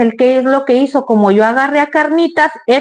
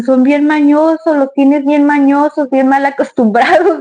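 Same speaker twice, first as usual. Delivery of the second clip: Jonathan complaining; 3 semitones higher than usual. Retold or imitated. Husband grumbles that the dogs are spoiled, mildly imitated. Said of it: "me dice".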